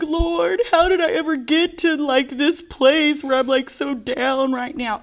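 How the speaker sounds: high, slow, whimpering plea; whiny crying voice. Retold or imitated. Telling Carolyn how she begged the Lord, slow high whine. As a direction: whine it out like you're about to sob. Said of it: "I was like".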